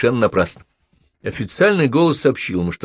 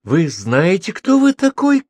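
high, loud furious yell; shouting; 10 semitones higher, 5 dB louder, much slower than usual. A narrator's reading. Professor loses her temper with the policeman, high and loud. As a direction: she loses control and screams at him. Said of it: "крикнула Елена Петровна".

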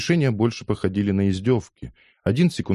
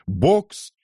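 high, drawn-out ringside call; referee's yell; 10 semitones higher, 4 dB louder than usual. A narrator's reading. Referee starting the street fight, high yell. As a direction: announce the round at a high pitch. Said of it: "завопил рефери".

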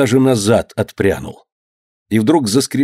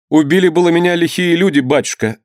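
higher-pitched, hesitant confession; timid; 8 semitones higher than usual. A narrator's reading. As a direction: confess timidly to a feared father. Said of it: "заговорил несмело Данила". (несмело, высоким голосом)

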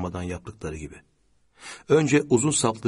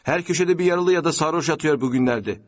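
higher-pitched complaint; grumbling; 7 semitones higher, 4 dB louder than usual. A narrator's reading. Car passenger to friend in front, grumbling. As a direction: grumble about the state of things. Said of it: "diye söylendi".

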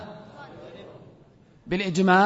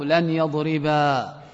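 slow example; 3 semitones lower, much slower than usual. Shown as a demonstration. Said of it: "نحو".

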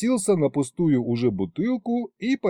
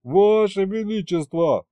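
pleading; 7 semitones higher than usual. Acted. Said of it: "взмолился я".

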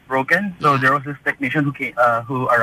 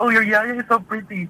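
higher-pitched imitated Cantonese-accented English; 6 semitones higher than usual. Bakery cashier complimenting the customer, in a Cantonese accent. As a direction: gush in a mimicked Cantonese accent. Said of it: "uh, in Cantonese".

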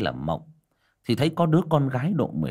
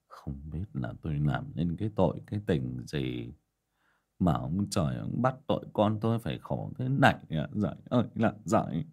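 sighing lament; 6 semitones lower, 5 dB quieter than usual. A narrator's reading. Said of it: "bác Vó thở dài".

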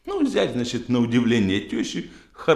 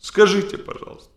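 pleading wife voice; 7 semitones higher, 4 dB louder than usual. Acted.

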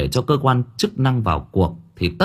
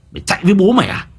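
higher, louder threatening yell; higher shouted taunt; 9 semitones higher, 3 dB louder, much faster than usual. Acted. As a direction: raise it into a shout. Repeated taunt, second take.

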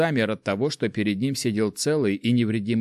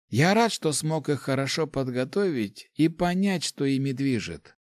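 put-on higher, fond old mentor voice; old rector voice; 4 semitones higher than usual. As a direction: speak as a kindly old master. Rector speaks.

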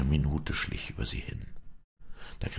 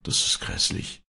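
hushed, voiceless near-whisper; low-key, whispered reaction; said quietly. A narrator's reading. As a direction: say it under your breath. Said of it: "sagte er leise".

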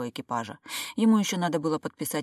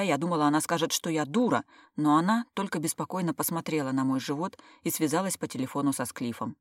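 ordinary delivery, nothing marked

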